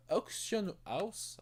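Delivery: a hint of an English accent on Auction House; tossing in Auction House with a light English accent; mock English accent. Shown as a demonstration. Auction House in a light English accent, said jokingly to viewers. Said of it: "avec mon magnifique accent anglais".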